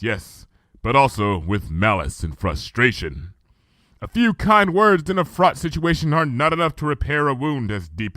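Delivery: lightly voiced princess, grave and reflective; Luna's regal voice, subdued. Luna explaining her rift with Celestia, sorrowful.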